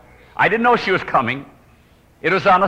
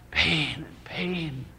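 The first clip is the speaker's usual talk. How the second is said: imitated groaning; 11 dB quieter, much slower than usual. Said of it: "my wife was groaning".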